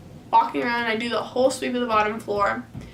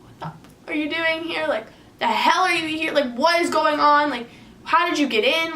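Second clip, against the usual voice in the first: mock angry questioning, raised pitch; demanding answers, pitched higher; retold confrontation; 5 semitones higher than usual.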